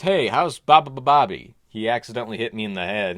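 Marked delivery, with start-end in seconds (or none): 0.0-1.5 groggy voice. Retold or imitated. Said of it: "And I asked".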